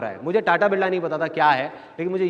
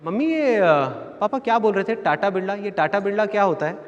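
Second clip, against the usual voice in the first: put-on hesitant, slightly raised child's question; lightly voiced small boy; 3 semitones higher than usual. Small boy asks mummy what Tata Birla means, puzzled. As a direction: imitate a puzzled little kid. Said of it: "मेरी एज थी पाँच से छः साल".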